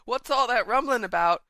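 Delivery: half-hearted acted holler; Frankie shouting. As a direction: call out lightly as a puzzled character. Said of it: "Frankie is shouting".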